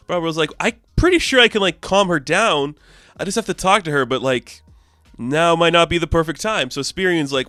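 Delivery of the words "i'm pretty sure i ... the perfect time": bubbly Barbarella. Retold or imitated. Barbarella voiced in recap.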